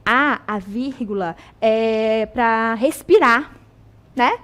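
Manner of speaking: slow, drawn-out mock of the old classroom rule; mock school saying. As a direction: parrot the way teachers say it, slowly. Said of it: "fala-se o quê?". (imitação lenta e debochada da regra escolar)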